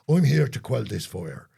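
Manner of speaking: slow, loud put-on Irish accent; hammed-up Irish film-line delivery. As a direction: announce it in a drawn-out Irish accent. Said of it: "Can you do an Irish accent?".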